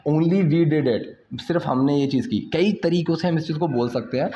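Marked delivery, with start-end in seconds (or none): 0.1-1.4 slow, deliberate example sentence; slow teaching demo. Shown as a demonstration. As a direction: lay each word out slowly. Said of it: "कि भाई हम ही दोनों हैं". (धीरे-धीरे समझाते हुए)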